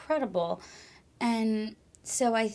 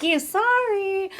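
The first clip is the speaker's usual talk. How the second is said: sheepish apology; 12 semitones higher, 7 dB louder, slower than usual. Retold or imitated. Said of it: "And I'm like".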